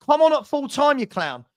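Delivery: fired-up dare to come on; calling out. Real, not acted. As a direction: call him out across the room. Calling out a rival fan.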